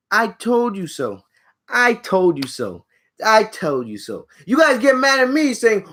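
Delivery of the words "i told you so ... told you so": slow, taunting told you so; slow smug told you so. Real, not acted. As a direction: draw it out smugly. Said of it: "I'm gonna be here to tell you".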